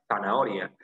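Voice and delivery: "zanahoria" starting with a th sound; th-like Z opening "zanahoria"; Castilian Z. Shown as a demonstration. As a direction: say "zanahoria" as in Spain, with a lisped Z. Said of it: "con Z".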